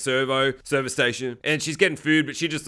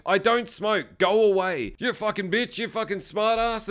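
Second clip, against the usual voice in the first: mock irritated quarrel; 5 semitones higher than usual. Woman retelling-style rebuff to a stranger wanting a smoke, mock irritated. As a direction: act out an annoyed brush-off. Acted quarrel over a cigarette.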